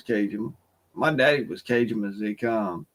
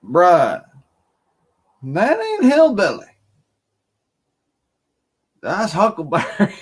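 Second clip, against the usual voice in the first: retold shout; 6 semitones higher, 6 dB louder than usual. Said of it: "I said".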